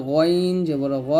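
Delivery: slow, heavy "গইন" and "গ" from top of throat; upper-throat letter. Shown as a demonstration. Teacher modelling for learners, "গইন" heavy from the throat. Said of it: "হলকের শেষ থেকে".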